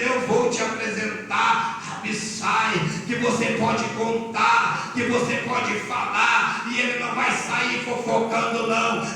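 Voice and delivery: loud, measured preacher's build; forceful preaching. Real, not acted. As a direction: drive each promise home to the congregation.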